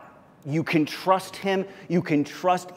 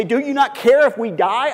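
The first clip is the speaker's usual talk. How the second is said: frightened plea; 9 semitones higher, 6 dB louder than usual. Retold or imitated. Disciples waking Jesus in fear.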